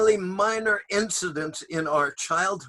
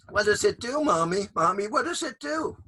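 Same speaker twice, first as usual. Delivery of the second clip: put-on child voice; 5 semitones higher than usual. Child asks again.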